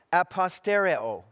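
"apostereo" wymówione po grecku, wyraźnie i trochę głośniej; "apostereo" po grecku, sylaba po sylabie; Greek word said aloud. Shown as a demonstration. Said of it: "in the original sounds like this".

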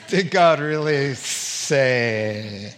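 lightly voiced sly serpent. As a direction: draw it out like a tempting snake.

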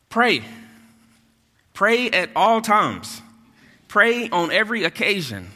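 high, loud pleading shout; preaching shout. Acted. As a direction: plead with the church to pray. Paul's plea shouted in sermon.

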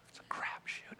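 hushed aside, almost no voice; whisper. Shown as a demonstration. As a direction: whisper it so the kids can't hear. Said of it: "there's little ones in the room".

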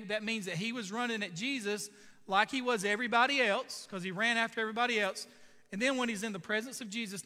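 preacher building up. Acted. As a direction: push it out with fervor. Preacher rising to a climax.

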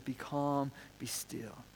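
soft calming command. Retold or imitated. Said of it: "he says".

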